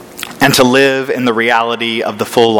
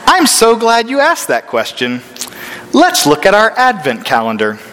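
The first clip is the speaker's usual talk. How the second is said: forced cheerful; 7 semitones higher than usual. Retold or imitated. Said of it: "took a deep breath, smiled".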